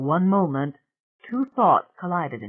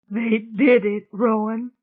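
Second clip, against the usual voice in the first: high, loud, breathless cry; gasping for breath; 6 semitones higher, 5 dB louder, slower than usual. A narrator's reading. Bea reaches Rowan with terrible news, gasping. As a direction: blurt it out as if winded. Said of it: "gasping for breath".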